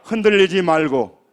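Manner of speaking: loud, firm call-out to the congregation; emphatic, projected call-and-response line; lead for repeating. Shown as a demonstration. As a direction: proclaim each phrase for them to echo. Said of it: "따라서 합니다".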